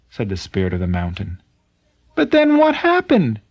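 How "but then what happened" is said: amazed question. Acted. Tasaku is amazed at the change.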